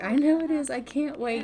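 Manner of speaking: acted excitement. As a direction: play mildly gleeful anticipation. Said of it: "you sound so excited about this".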